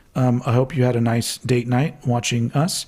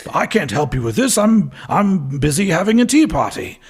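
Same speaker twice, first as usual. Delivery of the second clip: put-on British accent; 3 semitones higher than usual. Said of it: "give the American president a British accent".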